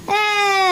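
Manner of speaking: long drawn-out mock wail; imitated cry. Parent asking baby about crying at the injection, mock cry. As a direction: imitate a baby's crying "aaa". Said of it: "అని ఏడ్చినావా".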